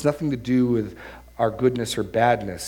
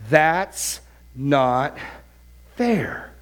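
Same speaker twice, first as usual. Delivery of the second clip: drawn-out mock chorus of complaint; hammed-up class objection; students' protest; much slower than usual. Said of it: "all said in one voice".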